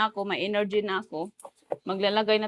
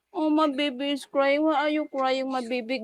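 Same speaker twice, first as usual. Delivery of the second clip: put-on baby talk; 4 semitones higher than usual. Mother to her crying baby, playful baby talk.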